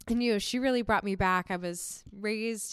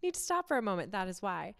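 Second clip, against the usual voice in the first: raspy from allergies; hoarse, gravelly throat. Real, not acted. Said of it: "So if I sound a little gravelly".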